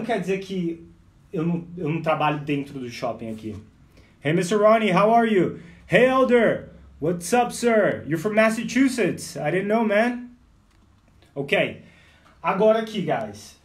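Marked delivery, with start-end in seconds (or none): 4.2-10.3 calling out loud and cheerful; loud friendly greeting. Acted. Greeting a friend met at the mall, loud and cheerful.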